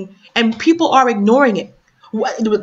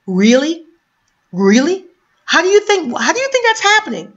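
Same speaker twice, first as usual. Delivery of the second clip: higher, indignant demand; outraged question; 4 semitones higher than usual. Real, not acted. Vlogger challenging her viewers, high and indignant. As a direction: ask it high with disbelief.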